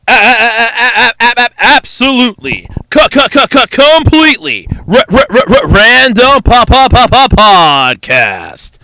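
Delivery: teeth-chattering, stuttering from the cold; shivering stutter. Acted. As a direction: stammer the title like you're freezing. Stuttered show title intro.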